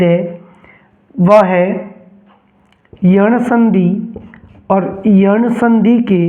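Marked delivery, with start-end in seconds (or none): 3.0-6.2 slow dictation. Shown as a demonstration. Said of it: "teacher dictates term slowly".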